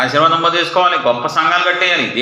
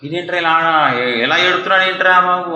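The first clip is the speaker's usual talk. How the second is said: mildly amazed onlooker, pitched up a little; acted astonishment; 4 semitones higher than usual. Onlooker amazed at a man crying hard, acted astonishment. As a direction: play a puzzled, astonished bystander. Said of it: "బాగా ఏడితే ఆశ్చర్యపోతారు".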